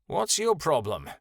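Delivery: nasty, scornful retort; nasty question. Acted. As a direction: spit the question at him. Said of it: "Kyoto asked nastily".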